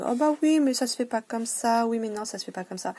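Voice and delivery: high, loud put-on parent voice, then rushed; mock parent scolding. Mocking the parents who corrected her, high and loud. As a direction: mimic a parent telling a child that's not how it's done.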